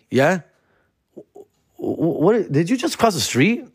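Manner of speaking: high, pushy demand; hammed-up indignant cop; mock cop questioning. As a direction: play the cop grilling him.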